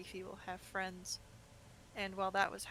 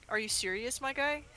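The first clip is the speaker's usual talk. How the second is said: incredulous; 4 semitones higher than usual. Retold or imitated. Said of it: "we were like".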